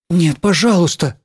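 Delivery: pleading. A narrator's reading. Schoolgirl begging the teacher to hold off, pleading. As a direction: beg the teacher, understated. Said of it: "взмолилась я".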